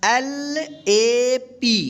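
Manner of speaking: letters spelled out slowly one by one; drawn-out letter-by-letter spelling. Shown as a demonstration. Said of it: "आप ए का ए उच्चारण से बने words".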